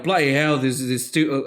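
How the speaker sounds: half-hearted put-on British accent; random British accent. Imitating Michael Caine out of the water, random British accent. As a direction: improvise a vague British accent. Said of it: "I'm giving him some random accent".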